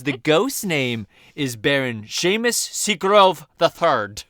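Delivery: a faint, bad Scottish accent, slowed; terrible Scottish accent. Host voicing George Lucas's ghost, bad Scottish accent. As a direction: try a Scottish accent and miss. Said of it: "That was terrible Scottish".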